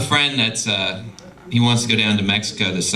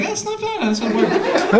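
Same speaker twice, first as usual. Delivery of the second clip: mock impressed approval; slower than usual. Irish adults approving whiskey eggs.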